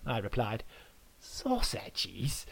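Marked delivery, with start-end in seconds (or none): 1.2-2.5 soft, falling mock question; taunting. Adam repeats the guest's word, softly taunting. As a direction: echo the word with quiet scorn. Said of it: "taunted Adam".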